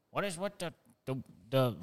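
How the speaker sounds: high, mocking Chinese accent put on a quote; the guy imitates a confused Chinese officer, in a put-on Chinese accent. To friends, joking about China finding the jet, in a mock Chinese accent. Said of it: "That's how China talks".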